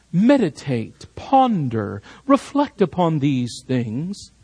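slow, measured invitation to ponder; relaxed contemplation. Shown as a demonstration. Preacher illustrating what the verse is not, relaxed contemplation. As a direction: let each word settle, unhurried. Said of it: "an invitation to a relaxed contemplation".

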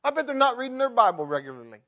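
loud high self-righteous scolding; mocking a self-righteous churchgoer. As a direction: look down your nose at them, loudly. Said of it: "self-righteous high horse and say".

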